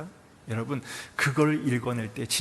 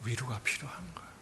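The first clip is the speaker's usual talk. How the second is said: fast, soft whisper; 2 semitones lower, 10 dB quieter, faster than usual. Shown as a demonstration. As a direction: breathe the answer gently. Whispered answer after shout. (속삭이듯 빠르게)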